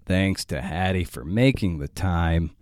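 measured, deliberate sign-off read; podcast outro read. Acted. Host signs off to podcast listeners, scripted outro read. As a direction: read the show's closing plugs, unhurried.

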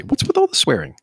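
a high, disbelieving question; high exasperated question. Real, not acted. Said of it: "but I gotta say".

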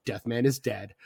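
flat low deadpan repeat; deadpan quote again, quietly. Retold or imitated. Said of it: "Ricky Jay just very deadpan goes".

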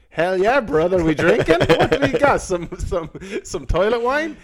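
loud, high, overeager hell yeah; eager prison bro. Retold or imitated. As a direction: pump it up like a keen new inmate. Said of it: "I'm like".

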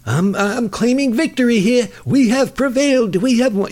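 mock victory speech. Mocking Trump declaring victory.

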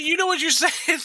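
high-pitched parental disbelief, rising at the end; retold shock, voice jumping way up; acted incredulous question. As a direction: question the child in scandalised amazement.

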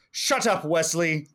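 mock-snap the famous line; lightly voiced irritated captain; quoting Picard. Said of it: "the episode that has the line".

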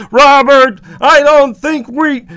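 high, loud, dragged-out protest; Raymond. Acted. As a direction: object loudly until you are cut off. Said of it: "Raymond begins to respond".

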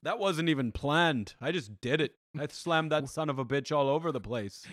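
badly faked Minnesota accent, close to Irish; Brock Lesnar. Wrestler bragging of an unplanned slam, in a shitty Minnesota accent. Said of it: "I'm doing a shitty Minnesota accent".

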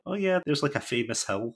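high, offhand and unimpressed; a bored local shrugging at the pyramids, mock blasé. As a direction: shrug it away. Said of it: "been like".

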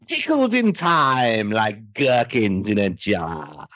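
slow, grand theatrical line, lightly voiced; imitating Kate O'Mara. Imitating the actress saying her line, slow and grand. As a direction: savour each word like a camp villainess. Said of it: "Kate O'Mara twelve times in a row say".

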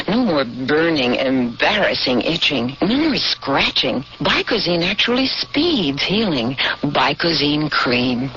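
ordinary talk, nothing marked

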